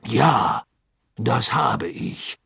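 gehetzt, außer Atem antwortend; atemlos. Acted. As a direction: hastig nach Luft ringend. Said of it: "erwiderte Karkaroff atemlos". (Karkaroff antwortet atemlos)

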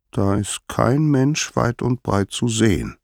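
a hint of a small god thinking aloud; lightly voiced young Hermes, scouting. Hermes talks to himself in the story.

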